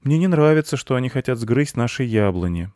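put-on worried boy. A narrator's reading. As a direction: complain as a small boy. Boy worries about trees. (высокий детский голос)

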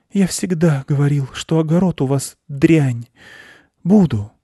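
high-pitched small-animal voice; fussy hare; grumbling hare. A narrator's reading. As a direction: complain up high, then accept. Hare grumbles, then accepts food.

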